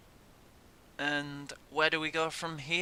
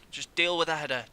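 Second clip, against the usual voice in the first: exasperated; 2 semitones higher, 4 dB louder, faster than usual. Real, not acted. Shouting at defenders.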